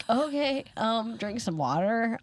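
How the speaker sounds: slow, hesitant suggestion, mildly groggy; half-awake advice. Retold or imitated. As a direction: imitate a sleepy parent groping for advice. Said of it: "half out of it".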